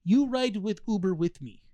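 imitating a Russian-accented woman, slightly high. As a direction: make the demand in a mock Russian accent. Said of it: "it sounds like a Russian accent".

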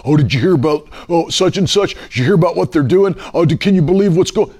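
lightly imitating excited gossips, quick by the end; mock gossip. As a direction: imitate people eagerly passing on the news. Acting out gossiping people he meets.

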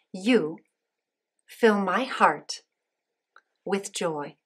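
put-on slow, spaced words for kids to repeat; slow call-and-response prompt. Shown as a demonstration. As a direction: lead the phrase slowly for children. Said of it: "repeat these words after me".

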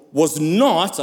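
"not" leaned on and set apart by a pause; stress on NOT. Real, not acted. Preacher correcting how the church sees the miracle, stressing "not". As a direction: hit the word "not" firmly. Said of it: "I emphasize the word not".

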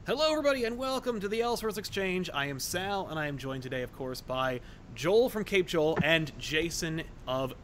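host's welcome, pitch easing down; podcast host intro. Acted. Host opens the show.

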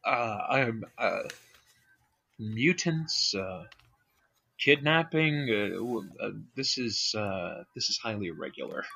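lightly put-on Amish accent, low and quiet; a hint of an Amish elder, subdued. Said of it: "I don't know how to do an Amish voice".

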